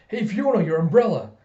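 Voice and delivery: loud retold call after someone; projected, urgent hail. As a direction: raise the voice to catch someone leaving. Man calling after departing woman.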